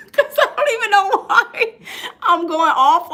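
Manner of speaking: high, loud words through laughter; laughing. Real, not acted. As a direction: laugh it out at yourself. Laughing at herself.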